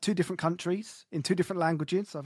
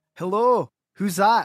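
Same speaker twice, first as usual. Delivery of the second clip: very loud, booming put-on Irish accent; 3 semitones higher, 10 dB louder than usual. In a sketch, someone calls out to whoever is there, in an Irish accent. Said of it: "Is that an Irishman?".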